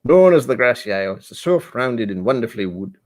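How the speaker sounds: accidental Irish lilt; Irish accent. Real, not acted. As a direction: read it with a slight Irish accent. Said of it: "I sound Irish".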